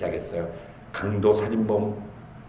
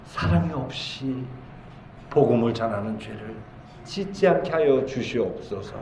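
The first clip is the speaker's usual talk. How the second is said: hushed prayer; 6 dB quieter than usual. Shown as a demonstration. Preacher repeats the petition for the congregation, hushed prayer. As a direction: repeat the prayer gently, with pauses.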